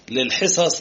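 للحصص with "hi" after the article; short i on the ح of للحصص; kasra on the ha. Shown as a demonstration. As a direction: say للحصص as "lil-hisas". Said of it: "بكسر الحاء".

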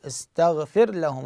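istaghfir lahum, slowly, r kept distinct from l; ra and lam both pronounced. Shown as a demonstration. Teacher showing no merging, ra and lam both sounded. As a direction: sound the r fully, then the l. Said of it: "الراء تلفظ واللام تلفظ".

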